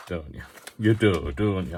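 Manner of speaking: light put-on Yorkshire accent. Artist joking about making do, Yorkshire accent. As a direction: slip into a mild mock Yorkshire accent. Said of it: "I don't know why I have to have it in a, um, Yorkshire accent".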